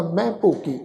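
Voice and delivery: ਮੈਂ said with the nasal bindi sound. Shown as a demonstration. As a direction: nasalise ਮੈਂ clearly before ਭੋਗੀ. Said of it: "ਇਹ ਬਿੰਦੀ ਸਹਿਤ ਉਚਾਰਨ ਹੋਏਗਾ".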